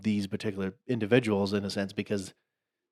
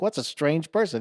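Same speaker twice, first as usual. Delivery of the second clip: mock French taunter; 7 semitones higher than usual. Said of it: "He's like".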